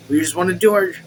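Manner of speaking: rattled off too quickly; rushed. Shown as a demonstration. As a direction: tumble through it without pause. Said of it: "I'm talking too fast".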